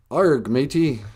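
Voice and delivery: Australian accent gone pirate; bad Australian accent. Shown as a demonstration. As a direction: botch Australian into pirate talk.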